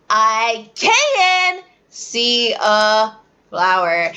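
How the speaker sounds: put-on slow, drawn-out dramatic child; child reciting with drama; dramatic kid answer. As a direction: ham up a kid's answer. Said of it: "They'll get dramatic like that too".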